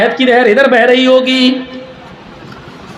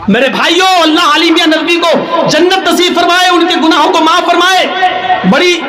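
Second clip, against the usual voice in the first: fiery preaching; 8 semitones higher than usual. Acted. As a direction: preach it out to the whole hall. Preacher at full force.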